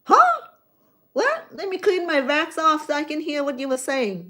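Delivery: high, startled huh and what; squinting confused listener turning an ear; mock confused listener. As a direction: play the puzzled listener straining to hear. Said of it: "People will turn the ear like".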